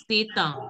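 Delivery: Seta with a nasal final "ah"; nasal sound. Shown as a demonstration. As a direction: model Seta, last vowel through the nose. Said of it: "Nasal sound".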